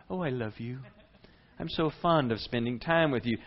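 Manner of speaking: a sugary fake affection, lightly; mock sweet. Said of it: "Does that sound like Jesus going".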